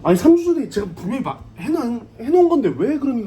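높고 크게 따지는 취객; 술김에 목청 높여 우기기; belligerent drunk. Acted. 취한 채 억울해하는 촌극. (시비 거는 취객 목소리)

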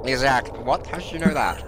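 a menacing villain sped up on helium; Bane on helium. Acted. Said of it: "Why do you sound like Bane on Helium?".

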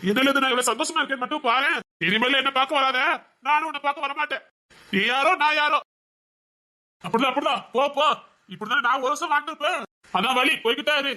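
showy defiant brush-off; defiant taunting. Acted. Taunting her, sending her away.

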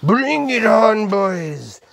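high, loud, drawn-out battle cry; rousing shout. Pretend. Host rallying before the milk pour, rousing shout. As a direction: holler it long to rally the troops.

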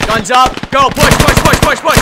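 very loud, high push command; rally the squad into the charge; battle shout. Real, not acted. Leading a squad assault.

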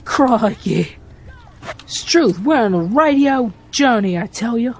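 jokey, swooping Aussie twang; mock Australian accent. Player narrating the Australia track, mock Australian accent. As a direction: play a hammed-up Australian adventurer. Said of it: "I hope I'm not offending any Aussies".

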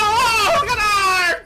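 long loud call of brothers; slow, loud, crying-out call to the team; drawn-out yell. Real, not acted. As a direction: stretch it out and yell. Dragged-out cry to teammates.

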